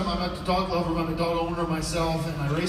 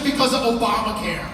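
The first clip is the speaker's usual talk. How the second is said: loud vet answer, laughing; 4 semitones higher, 7 dB louder than usual. Retold or imitated. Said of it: "He says".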